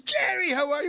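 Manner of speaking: put-on high, bright hello to an old friend; excited greeting. Producer greets actor, excited and high. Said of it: "He goes".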